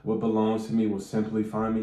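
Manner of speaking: mildly mocking robotic affirmation; robotic recital. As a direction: recite it like a stiff scripted mantra. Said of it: "Don't make it sound so robotic".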